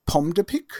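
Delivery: pomme de pic said in French, nasal pomme; French pronunciation. Shown as a demonstration. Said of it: "in French, we have".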